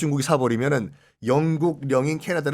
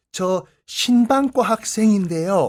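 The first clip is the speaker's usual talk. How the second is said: awkward, failed, clumsy put-on Seoul accent; 4 semitones higher, 4 dB louder than usual. An odd man among fans, asked what student he is, answers; clumsy attempted Seoul accent. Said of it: "안 되는 서울말로".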